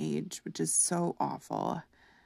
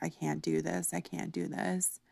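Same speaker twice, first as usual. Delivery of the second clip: crying despair; 5 dB quieter than usual. Retold or imitated. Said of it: "I was crying".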